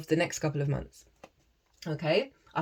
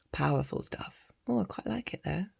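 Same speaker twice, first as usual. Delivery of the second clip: usual speaking voice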